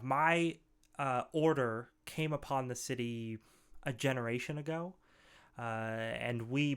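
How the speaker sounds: lightly voiced solemn ogre, measured with long pauses; understated, halting, formal ogre storyteller; grave ogre scholar. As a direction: tell of a curse gravely, as a learned ogre. Game master voices the ogre mage.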